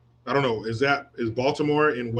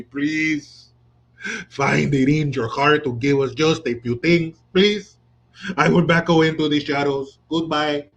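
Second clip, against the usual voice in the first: mock pleading. Mocking begging migrants.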